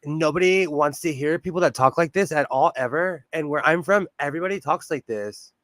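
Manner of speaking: lightly done Valley speak. Shown as a demonstration. Showing how everybody back home talks, light Valley speak. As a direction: slip into a hint of Valley speak. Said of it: "But Valley speak is real".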